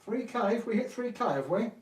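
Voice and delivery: high, loud burst of surprise; real excited surprise. Real, not acted. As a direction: react to a milestone just noticed. Notices channel reached three K.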